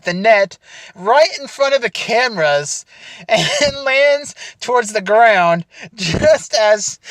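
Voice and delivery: real giggles breaking into the story; fighting laughter as she recalls the fall; laughing while telling. Real, not acted. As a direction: tell it while trying not to crack up. Retelling friend's tumble, laughing.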